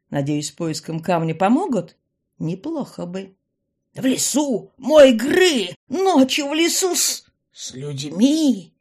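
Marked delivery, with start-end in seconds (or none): 3.9-8.7 loud, very slow, high horrified cry; outraged mother. A narrator's reading. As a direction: stress «мой», drawn out in horror.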